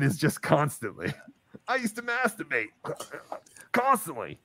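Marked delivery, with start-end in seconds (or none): 1.7-4.4 stuttered movie line. Retold or imitated. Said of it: "I also had a line where I said".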